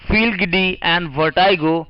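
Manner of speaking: drawn-out phrase; slow dictation. Shown as a demonstration. Teacher announcing the vocabulary pair, slowly. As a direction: say it slowly for copying. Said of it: "पहले लिख लीजिए".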